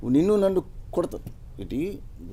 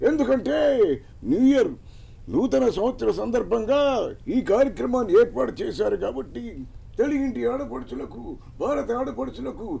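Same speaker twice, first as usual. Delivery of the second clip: put-on orate like the old film star turned leader addressing the nation; grand public address with long pauses; NT Rama Rao impression; 4 semitones higher than usual. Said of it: "Ramarao గారు new year చెప్తే ఎలా ఉంటుందో ఒకసారి చెప్తాం".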